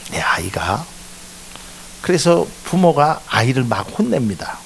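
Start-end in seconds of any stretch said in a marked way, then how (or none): 0.1-0.8 soft unvoiced whisper; hushed repetition; whispered aside. Real, not acted. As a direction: breathe the words to the congregation. Preacher repeats for emphasis.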